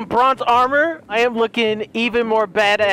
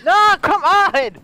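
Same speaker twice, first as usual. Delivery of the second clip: higher and louder, dragged out in frustration; frustrated slow yell; 9 semitones higher, 4 dB louder, slower than usual. Real, not acted. Gamer yells at a runaway horse, frustrated and drawn out. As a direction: groan it at the fleeing horse.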